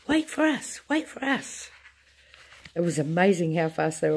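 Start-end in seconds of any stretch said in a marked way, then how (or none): 0.1-1.7 high calling shout. A narrator's reading. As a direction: shout after them.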